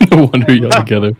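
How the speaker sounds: quoting through a loud laugh; laughing echo. Retold or imitated. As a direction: repeat the joke, cracking up. Laughing echo of clip's line.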